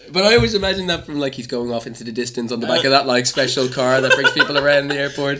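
fast and loud with glee; excited. Real, not acted. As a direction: rush it, bursting with fun. Excited, fast, laughing retelling.

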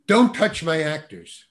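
retold holler. Director hollers at casting director to back off, startled mild holler. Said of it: "He just hollered it out".

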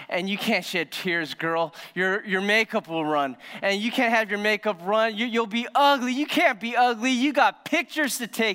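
rising, sassy best-friend voice, building up; sassy girlfriend. Retold or imitated. Friends tell the bride not to cry, sassy girlfriend voice. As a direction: hype her up like a bossy bestie.

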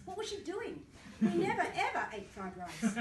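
words half swallowed by real laughter; laughing through it. Real, not acted. Author laughing at his own story while reading it aloud. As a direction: laugh as you say it.

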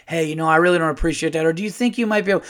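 quick, reasonable request; normal polite complaint. Shown as a demonstration. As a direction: raise it politely and casually. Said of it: "it's never a normal voice".

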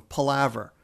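palaver with stress on the second syllable, pa-LAV-er. Shown as a demonstration. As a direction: sound out palaver clearly, pa-LAV-er. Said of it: "here's another one".

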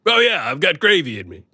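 Kool-Aid Man voice. Retold or imitated.

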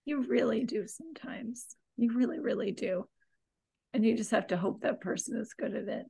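soft, subdued agreement; quiet and frustrated. Real, not acted. Frustrated co-host softly agreeing about needing direction, quiet. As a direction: say it quietly, holding back frustration. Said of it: "I'm being very quiet".

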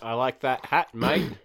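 lightly put-on Aussie accent; Australian accent. Shown as a demonstration. Showing the co-host how to do an Australian accent. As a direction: demonstrate a simple Australian accent. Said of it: "That's how you do an Australian accent".

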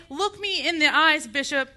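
heated face-to-face challenge, loud at first; indignant demand from the pulpit; angry challenge. Acted. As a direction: confront a superior with righteous anger, then ease slightly. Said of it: "Is my anger inappropriate?".

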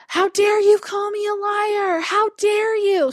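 a hammed-up retold scream, not full volume; mock yell. Caller screaming at the customer service rep, a mild mock yell. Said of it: "just started screaming at me".

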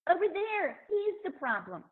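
hammed-up wife blaming her husband; complaining wife. Wife pushing change off to over there, mock complaining. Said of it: "we say".

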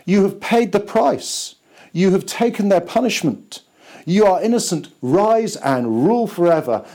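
lightly voiced heavenly Father declaring; God the Father speaking. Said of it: "looks down and says".

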